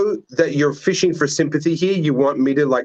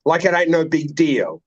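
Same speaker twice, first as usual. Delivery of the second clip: casual mock brag. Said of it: "he just cash, like".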